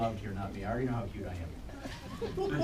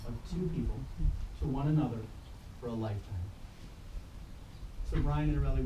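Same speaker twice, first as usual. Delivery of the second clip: formal speech. Acted. Officiant opens the wedding ceremony.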